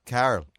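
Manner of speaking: "Carl" as Mayo people say Carol; demonstrating Mayo "Carl"; Mayo pronunciation. Shown as a demonstration. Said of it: "it's how Carol is pronounced in Mayo".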